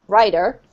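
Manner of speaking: rider as American writer, T turned D; same D sound. Shown as a demonstration.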